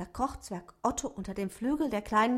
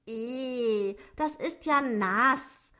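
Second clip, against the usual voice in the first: higher dwarf voice, drawn out in disgust; little dwarf's slow, louder complaint; exclaiming; 4 semitones higher, 4 dB louder, much slower than usual. Acted. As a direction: cry out slowly, put off by the soggy bread. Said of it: "rief Zwerg Otto".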